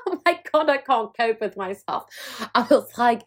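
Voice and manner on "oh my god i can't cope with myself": mock exasperation. Retelling her own outburst.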